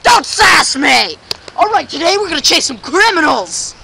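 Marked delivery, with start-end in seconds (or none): 0.0-1.2 slow shouted scolding; don't sass me, hammed up; mock angry shout. Scolding the camera holder.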